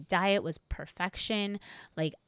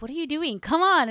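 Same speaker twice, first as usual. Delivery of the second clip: mock coach yelling, high and loud; imitating a coach shouting from ringside; 9 semitones higher, 9 dB louder than usual. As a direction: call it out from the corner like an exasperated coach. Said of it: "And he's like".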